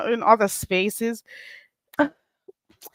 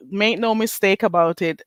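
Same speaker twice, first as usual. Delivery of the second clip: own Jamaican accent; 2 semitones lower, 3 dB quieter than usual. Real, not acted. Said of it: "This accent goes nowhere".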